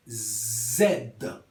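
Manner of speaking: "Z" as a buzzing, low "zed"; Z en criollo. Shown as a demonstration. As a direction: buzz the start of "Z", zed. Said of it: "como un". ("Z" con zumbido, "zed")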